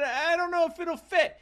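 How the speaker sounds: put-on very high, small child voice; timid child. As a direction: worry it out like a little boy. Young self voiced in story.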